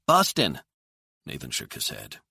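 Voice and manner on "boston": put-on high, loud child's voice; kid's guess. A narrator's reading. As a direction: pipe up like an eager kid. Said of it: "One of the kids said".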